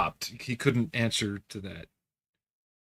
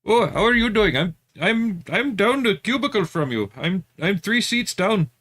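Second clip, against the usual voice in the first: high, swooping put-on voice; mock-friendly phone voice, pitched way up; put-on caller voice; 10 semitones higher, 4 dB louder than usual. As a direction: play a chatty cubicle neighbor in a much higher voice. Acts out answering the scam caller.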